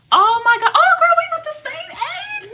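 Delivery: very high, loud squealed realization; thrilled high-pitched outburst; excited surprise. Real, not acted. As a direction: squeal it in delighted shock. Discovers they share an age.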